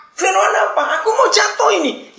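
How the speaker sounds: high, loud, exasperated shouting; panicked yelling. Acted. Falling man snaps at the angel preaching to him, frantic shout. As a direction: yell back as if about to fall. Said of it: "jangan teriak-teriak".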